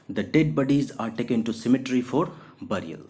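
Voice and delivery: very slow, clear reading; teacher dictating example; slow dictation. Shown as a demonstration. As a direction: read it word by word. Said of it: "example sentence".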